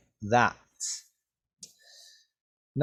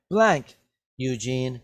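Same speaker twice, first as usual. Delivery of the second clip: blaming. Acted. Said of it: "Benson blamed".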